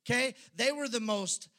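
loud, high, driving sermon voice; fiery preaching. Acted. Pastor preaching hard to the church, fiery. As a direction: preach it out with full force to the congregation.

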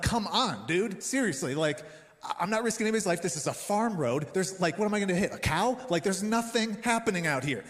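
venting, half-playful frustration; mock anger. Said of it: "I'm, I'm mad".

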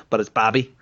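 put-on light Boston accent on Bobby. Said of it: "That's my best Boston accent".

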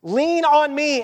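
slow, spaced-out appeal; a mild call to anyone listening; crying out. Acted. Beloved calling people to lean on him, crying out. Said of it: "He's crying out and saying".

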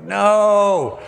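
high emphatic no; refusing the slow boat, high-pitched; mock refusal. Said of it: "I'm like".

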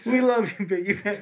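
lightly mock tender goodbye; mock tender farewell. Sung-like farewell to mascot.

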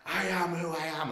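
retold shouting back. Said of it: "until I started shouting back".

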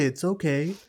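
a touch of calm Joel, ending on a rise; understated calm Joel voice; Joel's calm line. Retold or imitated. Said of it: "that's the way he says it".

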